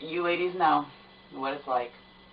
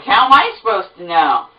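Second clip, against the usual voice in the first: rude clerk; 3 semitones higher, 6 dB louder than usual. Retold or imitated. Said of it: "utter attitude with me".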